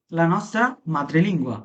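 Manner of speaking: very slow, careful Italian; deliberate teacher demo; slow model phrase. Shown as a demonstration. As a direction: stretch each word out for learners. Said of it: "teacher models Italian slowly".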